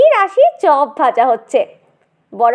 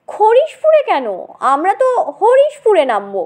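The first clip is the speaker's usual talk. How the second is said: puzzled; 6 semitones higher than usual. Acted. Narrator puzzled, quoting himself.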